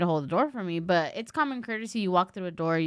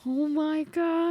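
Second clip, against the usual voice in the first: shocked gasp; 8 semitones higher, much slower than usual. Retold or imitated. Shocked friend at rude exchange.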